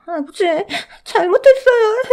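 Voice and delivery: very high, sobbing plea; crying child. Acted. Boy crying to his father for forgiveness, sobbing. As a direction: sob out an apology like a terrified boy.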